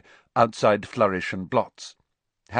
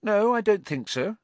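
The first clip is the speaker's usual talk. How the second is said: composed; 13 semitones higher than usual. A narrator's reading. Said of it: "said Hermione composedly".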